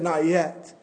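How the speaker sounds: softened, settled voice after the yelling; gentle reply. Acted. Potter calmly refusing the clay's plea, gentle. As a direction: answer gently, with quiet patience. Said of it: "he only smiled and gently said".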